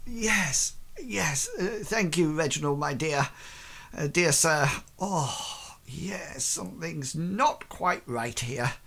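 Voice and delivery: fading into a groggy mumble; hungover Ashton. Acted. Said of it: "he's like".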